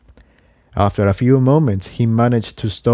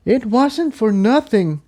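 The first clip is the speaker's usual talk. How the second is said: reassuring; 12 semitones higher than usual. Acted. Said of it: "Incendia assured him".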